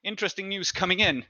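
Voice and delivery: a hint of a teasing Haxic; Haxic coaxing. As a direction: coax her to sit beside you. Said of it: "Haxic goes like".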